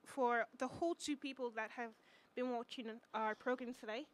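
mock British presenter accent; fake accent. Shown as a demonstration. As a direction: address viewers in a put-on British accent. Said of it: "talk in my fake accent".

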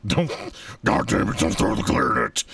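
loud, high panicked yell. Real, not acted. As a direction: shout to stop them. Yelling at friend throwing clarinet.

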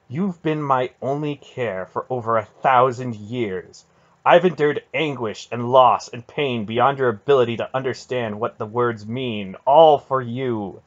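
loud, mounting impassioned rebuke; intense. A narrator's reading. Aunt telling Garion all she has endured, intense. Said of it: "the intensity of Aunt Paul's words".

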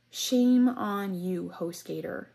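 indignant call-out. Real, not acted. Calls out the company in anger.

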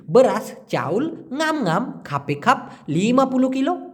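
Malay words in a market seller's lilt; light Malay accent; Malay phrasing. Retold or imitated. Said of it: "এভাবে ওরা বলে".

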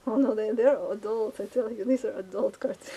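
giddy protest with a laugh in it; excited laughing protest. Real, not acted. Laughing off her own joke.

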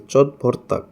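"চটভর্তাক" opening on a ch sound; C pronounced ch. Shown as a demonstration. Teacher showing C again, "চটভর্তাক" with ch at the start. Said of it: "সিরে চ বলতেছে".

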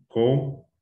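"Cómplice" as cóm... plice, long gap; syllable by syllable. Shown as a demonstration. Teacher separating syllables first, syllable by syllable. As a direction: split "Cómplice" after a drawn-out first syllable. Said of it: "Separamos de sílaba primero".

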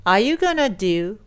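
"gonna" run together as one short word in "Are you gonna do"; linked gonna. Shown as a demonstration. Teacher shows learners the pronunciation point, linked "gonna". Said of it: "発音のポイントです".

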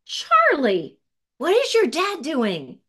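high, slow, curious call to a friend; excited call. Acted. Girl calls to Charlie about his dad, excited and high.

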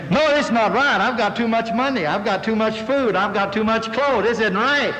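high, chanting list of grievances; mock complaint. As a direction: protest in hammed-up indignation at being too blessed. Mock complaint about too many blessings.

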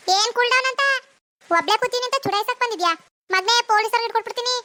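mock his cool down, then threaten; angry threat. Woman threatens a stranger with police, angrily.

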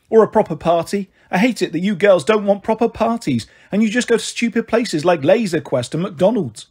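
lightly acted, insistent grievance; Marigold, aggrieved. Mother complaining to her girls about birthday cake, aggrieved.

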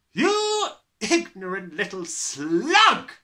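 slow, loud, high bellow. A narrator's reading. Headmistress bellows insults at a small boy, loud and slow. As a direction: roar each insult with contempt. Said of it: "the Trunchbull bellowed".

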